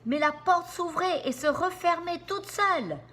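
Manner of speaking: high, loud frightened insistence; frightened moan. Acted. Sammy insists in fear that the place is haunted. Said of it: "gémit Sammy".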